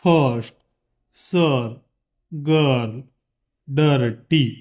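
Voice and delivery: "फर्स्ट" "गर्ल" with a central er vowel; er sound demo. Shown as a demonstration. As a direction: say each er vowel clearly. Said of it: "यामध्ये अ चे उच्चार". (अर ध्वनि का साफ़ उच्चार)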